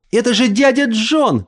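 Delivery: put-on little girl, high and breathless, gasping it out; girl exclaims to cousins, breathless and excited. A narrator's reading. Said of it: "воскликнула, переводя дыхание".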